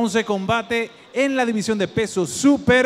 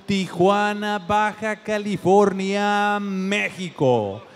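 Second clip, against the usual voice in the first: ring announcer; 3 semitones higher, slower than usual. Acted. Announcer stretching hometown names.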